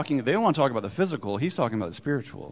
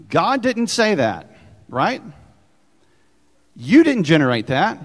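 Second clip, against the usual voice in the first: forceful preaching shout; 5 semitones higher, 11 dB louder than usual. Real, not acted. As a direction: hammer it home to the congregation. Preacher rising to emphatic peak.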